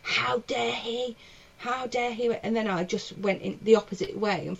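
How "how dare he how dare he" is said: slow, drawn-out seething disbelief; understated indignation. Retold or imitated. Comic driving home after the row, understated anger. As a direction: replay the anger slowly, without raising the volume. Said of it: "angry as anything".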